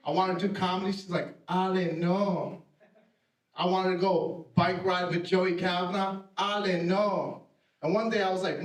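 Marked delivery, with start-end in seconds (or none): 1.5-2.6 slow, drawn-out mom's no; lightly voiced mom saying no; refusing mom. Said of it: "My mom always told me no". 6.4-7.4 slow, drawn-out mom's no; lightly voiced mom saying no; refusing mom. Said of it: "My mom always told me no".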